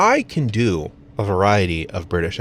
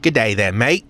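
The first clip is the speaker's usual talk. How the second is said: put-on Australian greeting, lifting on mate; Australian accent; 2 semitones higher than usual. Shown as a demonstration. American showing off accents he can do, slipping into Australian. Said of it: "Or an Australian accent?".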